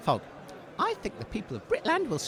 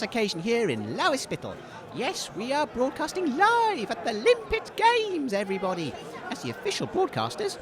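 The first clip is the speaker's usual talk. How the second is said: radio presenter; 2 semitones higher than usual. Acted. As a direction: announce it like the big broadcast. Radio host intro.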